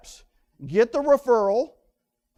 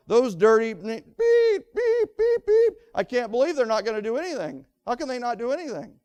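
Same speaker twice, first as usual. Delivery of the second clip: mock angry buyer; 2 semitones higher, 3 dB louder than usual. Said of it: "They don't say things like".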